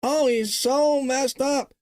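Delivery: mocking the phrase. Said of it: "we hear that phrase a lot".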